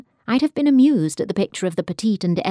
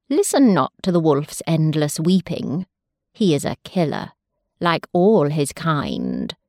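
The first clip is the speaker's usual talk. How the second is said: a hint of lower, cold warning; stern mother bird; 4 semitones lower than usual. Mother sparrows warning chicks about the wolf, lightly stern. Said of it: "their mothers answered sharply".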